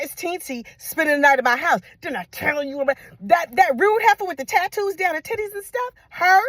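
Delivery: high-pitched incredulous rant; scandalized auntie scolding her nephew; outraged auntie. Retold or imitated. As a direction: pitch it up in disbelief.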